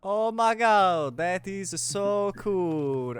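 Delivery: put-on a made-up kid voice, drawn out; odd put-on voice. GM voicing a ghost kid, unsure which voice it is. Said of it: "I don't know what voice this is".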